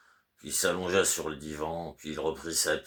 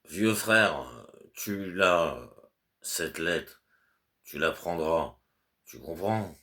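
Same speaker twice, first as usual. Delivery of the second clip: louder, insistent instructions to a servant; fussy master's orders; 5 dB louder, slower than usual. Acted. Master Goliatkin instructing his servant Petrouchka, louder and insistent. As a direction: spell it out to a sleepy servant.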